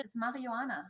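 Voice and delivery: Marihuana in German with a soft h and open a; German pronunciation. Shown as a demonstration. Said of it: "So in, in German".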